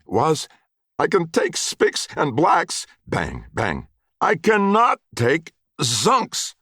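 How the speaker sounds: high, loud, slow anguished cry; anguished rant. A narrator's reading. Wesley banging his head against the wall, anguished high wail. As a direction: wail it out between the bangs.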